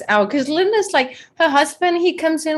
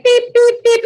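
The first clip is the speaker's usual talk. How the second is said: high, loud machine beeps; mock beeping; 13 semitones higher, 6 dB louder than usual. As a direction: beep like an alarm going off. Imitating a device's warning beeps.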